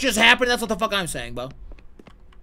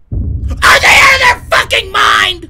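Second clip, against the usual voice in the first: high, slow, loud scream; frightened yell; 15 dB louder, much slower than usual. Real, not acted. Streamer screams at a scare in the game.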